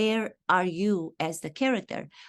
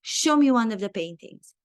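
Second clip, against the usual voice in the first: louder, firm coaching command; urging instruction; 3 semitones higher, 5 dB louder than usual. Retold or imitated. Acting coach directing an actor mid-exercise, urging. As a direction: push the actor to show you.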